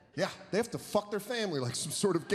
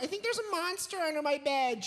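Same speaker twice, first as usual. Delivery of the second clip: put-on scared child; 11 semitones higher than usual. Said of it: "was like".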